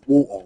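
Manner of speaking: "Water" the English way, crisp t, no r at the end. Shown as a demonstration. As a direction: announce "Water" loud and proper English. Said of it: "That's how we say it in England".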